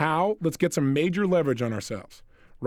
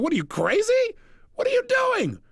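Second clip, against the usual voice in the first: shocked shout. Retold or imitated. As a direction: yelp it like cold water hit you. Woman shocked by water.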